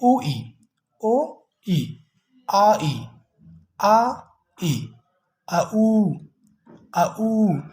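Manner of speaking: vowel pairs glided one after another; diphthong demos. Shown as a demonstration. Teacher running through diphthongs for students. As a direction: sound each vowel pair slowly. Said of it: "pronunciation है".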